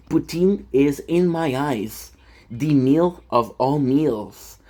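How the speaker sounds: slow, savoured mock-solemn praise; slowly declaring poutine the meal of meals; slow grand praise. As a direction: drag it out like a grand toast.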